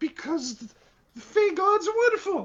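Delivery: very high, very loud, belted put-on character voice. Answering how the party can teleport, speaking in Phoebe's voice. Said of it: "I was trying to do Phoebe's voice".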